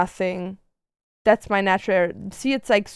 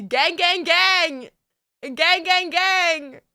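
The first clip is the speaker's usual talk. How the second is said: put-on baby voice; 7 semitones higher than usual. Voicing baby self in photos.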